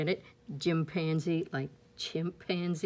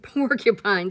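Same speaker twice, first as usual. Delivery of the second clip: laughing; 2 semitones higher, 7 dB louder than usual. Acted. Laugh on word.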